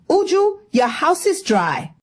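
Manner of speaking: high, whining complaint; complaining. Acted. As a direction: grumble it like a fussy aunt. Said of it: "Auntie would still complain".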